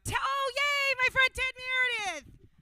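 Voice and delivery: high, loud, delighted squeal of a name; excited squeal. Real, not acted. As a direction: gush over the friend joining you. Picks volunteer Ted on stage.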